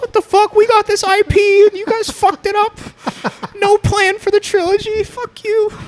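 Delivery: very high, loud, furious, fuming rant. Picturing Mickey Mouse trashing the studio over a bad movie, mock-angry Mickey Mouse rant. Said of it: "she's just pissed".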